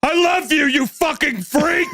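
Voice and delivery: mock-fond shout of love and insult; husband's mock shout. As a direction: toss a cheerful insult through the door. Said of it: "that whole interaction was".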